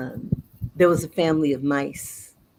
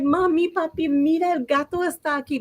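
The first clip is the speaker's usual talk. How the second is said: high, urgent little-mouse warning; acted childlike alarm; alarmed children; 10 semitones higher than usual. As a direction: alert your parents that danger has come. Children warn parents of cat.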